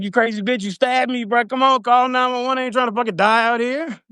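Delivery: high, desperate exasperation; frantic pleading. Retold or imitated. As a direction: beg her, pitch way up. Retold pleading for a 911 call.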